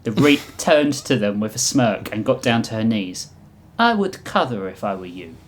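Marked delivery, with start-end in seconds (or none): 3.8-5.4 put-on understated, loosely Russian accent; vaguely Russian accent. The Reap warns them before the flash, Russian accent. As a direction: give the warning with a Russian accent. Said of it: "thick veil accent that was vaguely Russian".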